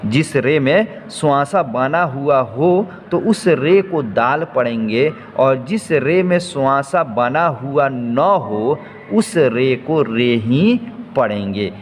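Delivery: slow and deliberate, each word spaced out; teacher stating the rule slowly; slow, careful rule. Shown as a demonstration. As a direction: spell the rule out slowly for the class. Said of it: "तो दो बातों का ध्यान रखना है".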